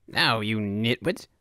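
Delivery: mildly squealed, irate governor; squealed indignation. A narrator's reading. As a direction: start slow on the insult, scold with restrained outrage. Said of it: "the man squealed".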